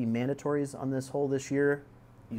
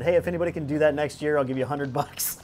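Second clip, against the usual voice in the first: quick, raised retelling of the offer; louder, faster, quoting himself at the ceremony; loud retold offer; 3 semitones higher, 6 dB louder, faster than usual. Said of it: "I said".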